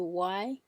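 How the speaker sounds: WHY swept up from the middle; "why" rising like a second tone. Shown as a demonstration. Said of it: "isn't it similar to".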